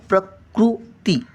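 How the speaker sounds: प्रकृती slowly, with an r sounded in कृ; r sound shown. Shown as a demonstration. Teacher pointing out the r, प्रकृती in slow syllables. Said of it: "तो पण रचा उच्चार येतो बघा".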